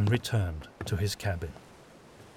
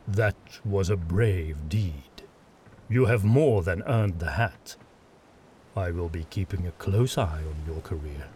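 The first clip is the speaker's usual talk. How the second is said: a commanding lord giving measured praise; stern witch hunter lord; 2 semitones lower, 3 dB louder than usual. Acted. Adomir praises Ludlov.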